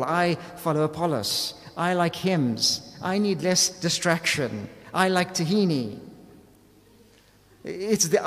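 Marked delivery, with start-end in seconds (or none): 0.0-6.0 each "I" leaned on at the start of the line; stress on I. Shown as a demonstration. Preacher listing the factions' claims, each "I" stressed. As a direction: punch every "I" as if underlined. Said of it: "as if it's in bold and underlined".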